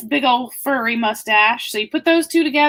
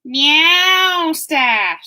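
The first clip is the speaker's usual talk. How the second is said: a touch of a meowing cat; lightly voiced cat; 4 semitones higher, 4 dB louder than usual. Reading a kids' book aloud, light cat voice. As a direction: purr it out like a cat. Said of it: "says the cat".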